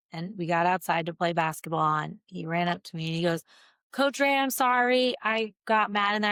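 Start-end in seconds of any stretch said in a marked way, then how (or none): 3.9-6.3 voicing the boy. Boy apologizing to his coach after punching the wall, lightly voiced. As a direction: lightly play the sorry kid.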